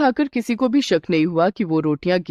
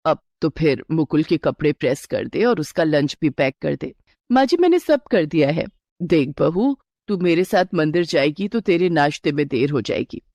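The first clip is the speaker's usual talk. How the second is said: a lightly lowered, steady mother-in-law; 4 semitones lower than usual. Acted. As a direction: reassure the bride as a knowing elder. Mother-in-law deflects bride. (हल्की सी नीची आवाज़ में सास)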